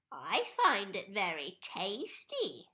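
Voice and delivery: gloating whisper; sly whisper. A narrator's reading. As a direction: whisper it with secret glee. Mrs Twit gloating.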